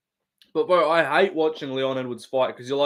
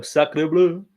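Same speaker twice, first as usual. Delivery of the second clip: slow, mock French exclamation; put-on French accent; 3 semitones higher than usual. Shown as a demonstration. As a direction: draw it out in a stereotypical French voice. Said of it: "doing a fucking normal French voice".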